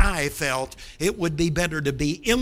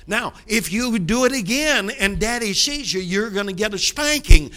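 louder, firmer father's warning; stern threat; 3 semitones higher, 7 dB louder than usual. Retold or imitated. Father warning his son about a spanking, stern and loud. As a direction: lay down the law to the boy.

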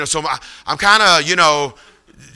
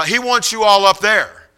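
big lady; 5 semitones higher, 3 dB louder than usual. Retold or imitated. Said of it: "this big lady comes up".

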